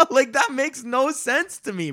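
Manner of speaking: high, slow protest through laughter; laughing disbelief. Real, not acted. Poker player baffled by a bad beat, laughing. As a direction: laugh while you complain.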